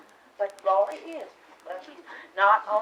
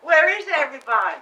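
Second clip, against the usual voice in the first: calling out; 3 semitones higher, 8 dB louder, faster than usual. Acted. Mother calls out on arrival.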